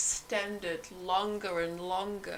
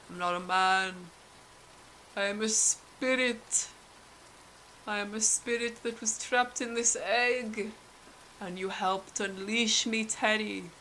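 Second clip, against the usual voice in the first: a hint of an otherworldly spirit, calm and even; lightly voiced spirit. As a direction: announce yourself as a mild, unearthly spirit. Spirit reveals itself to Terry.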